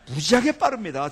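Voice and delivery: loud, punchy boast; emphatic public declaration. Real, not acted. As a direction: belt it out to the crowd. Emphatic punchline about speed.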